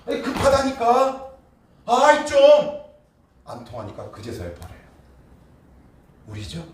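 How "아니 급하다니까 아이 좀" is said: high, loud impatient nagging; cornered prodigal son begging the father, rising to a loud whine; whiny demanding son. Retold or imitated. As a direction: pester your father to fix your mess. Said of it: "아버지한테 그러는 거예요".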